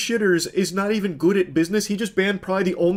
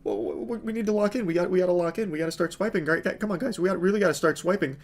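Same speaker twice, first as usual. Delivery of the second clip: timid sidekick; 6 dB quieter, faster than usual. Retold or imitated. Mocking the streamer's timid friend urging viewers to buy, nervous and hushed. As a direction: nervously coax the others without upsetting the boss. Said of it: "He's like".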